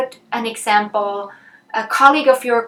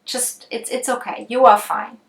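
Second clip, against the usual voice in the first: reassuring. Acted. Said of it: "I could reassure, um, and calm".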